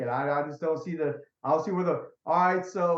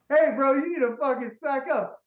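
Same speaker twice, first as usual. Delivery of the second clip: higher, louder, laughing tough-guy voice; mock tough guy; 11 semitones higher, 4 dB louder than usual. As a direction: bark it like a bro telling you off. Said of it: "They're like".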